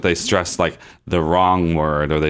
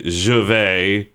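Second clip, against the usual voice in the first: "Je vais" with emphasis forced onto it; wrongly stressed French. Shown as a demonstration. Showing French cannot take English stress, forced emphasis on "Je vais". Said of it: "you couldn't stress it".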